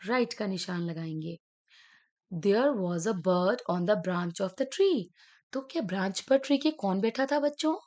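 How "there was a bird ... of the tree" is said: slow reading. Shown as a demonstration. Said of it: "reading sentence to class".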